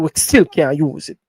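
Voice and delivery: ordinary talk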